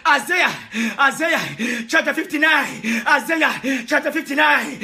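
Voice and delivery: impassioned sermon, calling out to the flock; a pastor pleading and shouting to his people; fervent preaching. Real, not acted. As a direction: preach it with full fire. Preaching at full force.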